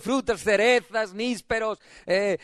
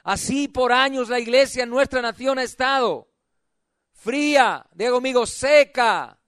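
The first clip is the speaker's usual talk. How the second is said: full-voiced, driving sermon delivery; impassioned preaching; 4 semitones higher, 4 dB louder than usual. Real, not acted. Preacher rousing a cold church into spring, impassioned preaching. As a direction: preach it, drawing out the phrase endings.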